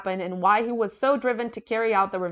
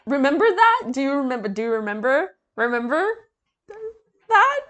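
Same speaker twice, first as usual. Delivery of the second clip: mock insistent; 4 semitones higher, 4 dB louder than usual. Real, not acted. Mock-insistent repeated question.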